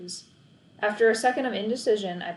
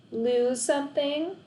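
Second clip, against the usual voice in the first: smug question; 6 semitones higher, slower than usual. A narrator's reading. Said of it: "Lexi asked".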